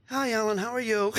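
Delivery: imitating a changed phone greeting, slightly lifted; totally different voice. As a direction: switch lightly into a different voice for the greeting. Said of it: "totally different voice".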